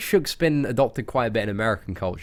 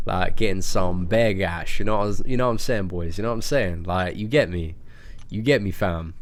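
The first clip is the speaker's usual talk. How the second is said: lightly voiced London roadman slang; roadman persona; 4 semitones lower than usual. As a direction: slip into a laid-back street persona. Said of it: "that is the persona that I slip into".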